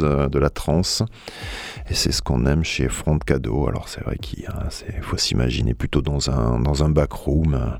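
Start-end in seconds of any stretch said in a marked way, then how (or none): 3.7-5.2 soft breathy whisper. Real, not acted. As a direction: whisper it like a secret. Sensual back room description.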